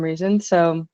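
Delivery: thin headset mic sound; talking through earbud microphone. Real, not acted. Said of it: "the microphone I'm actually using is my headphones microphone".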